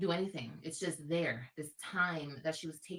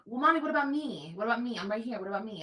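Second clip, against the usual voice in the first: much higher, pleading little daughter voice; imitating her small daughter begging for attention; whiny little girl; 4 semitones higher, 7 dB louder, faster than usual. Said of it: "everything is like".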